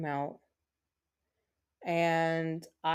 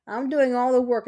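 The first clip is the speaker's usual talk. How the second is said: loud and higher, exasperated; indignant outburst; 6 semitones higher, 7 dB louder than usual. Real, not acted. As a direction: blurt it out, fed up. Complaining about partner dancing around.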